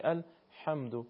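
الحمد with a light throat squeeze on ح; gentle throaty ح in الحمد; slightly constricted ḥā. Shown as a demonstration. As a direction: tighten the throat only a little for ح in الحمد. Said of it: "کمی گرفتگی".

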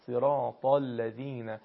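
صراط الذین slowly, with a full, heavy ط; teacher's slow model of صراط الذین, emphatic ط; heavy Arabic ط. Shown as a demonstration. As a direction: recite صراط الذین carefully, thickening the ط.

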